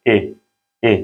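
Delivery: ए said as a clear open e sound; vowel demo for a German lesson. Shown as a demonstration. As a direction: model the vowel ए slowly for students. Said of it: "ये ए की आवाज़ देगा".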